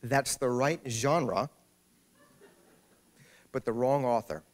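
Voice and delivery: slow, overly polite correction; a touch of prim politeness. Retold or imitated. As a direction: correct her gently and sweetly. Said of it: "she said very politely".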